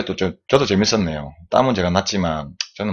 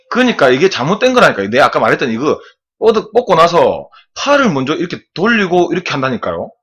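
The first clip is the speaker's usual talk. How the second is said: exasperated insisting; 5 semitones higher, 4 dB louder than usual. Real, not acted. Coach correcting a student's wrong form.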